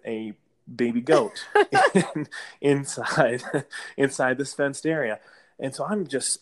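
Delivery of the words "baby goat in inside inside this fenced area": real chuckle breaking up the words; laughing through words. Real, not acted. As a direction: stumble through it, tickled and laughing. Amused at reveal of the goat.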